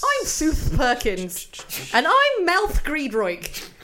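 slow, loud show host; TV presenter voice. Pretend. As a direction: introduce the show grandly. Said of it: "Welcome back to the Great British Bake Off".

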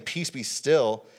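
slow, emphatic mock rebuke; a firm order, each word weighted; sharp command. Jesus rebuking the storm, with sharpness in the tone. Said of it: "have this sharpness to, to the tone".

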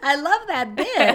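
giggling while saying it; laughing. Real, not acted. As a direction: talk through laughter. Both laughing at the bit.

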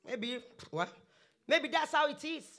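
resigned self-talk. Acted. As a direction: sigh and give in, as if to yourself. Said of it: "And you begin to say".

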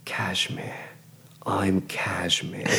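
gasp, then a slow savoured name; dawning realisation. Acted. New mage finds a runner name, slowly delighted. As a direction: hit on your alias and draw it out. Seizes on cashmere as his name.

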